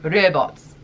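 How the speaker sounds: "robots" as "reh-bots", South African style; South African vowel in "robots"; South African accent. Shown as a demonstration. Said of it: "let's try South African accent".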